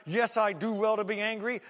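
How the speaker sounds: "Yes" hit hard, fist-shaking anger; angry retort. Acted. Jonah shaking his fist at God, angry. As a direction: spit it up at the sky. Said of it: "he is so angry".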